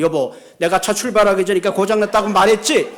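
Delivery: lightly acted scolding wife; wife telling on her husband; nagging wife.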